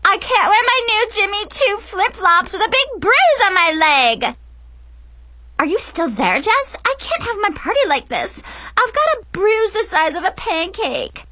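high, loud dramatic wailing; hysterical teen shriek. Acted. Mackenzie shrieks to Mom about her bruise, high and loud. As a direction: melt down like a spoiled diva. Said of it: "Mackenzie shrieked".

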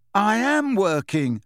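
insist, drawn out and stung; nettled. A narrator's reading. Harry snapping back at Hermione, nettled and drawn out.

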